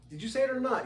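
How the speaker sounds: high, insistent question; retold urgent question; pressing demand. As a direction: demand a straight answer. Pressing the guy.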